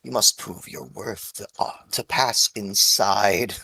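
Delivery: a hint of a menacing old tree; talking tree. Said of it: "she gives a cackle".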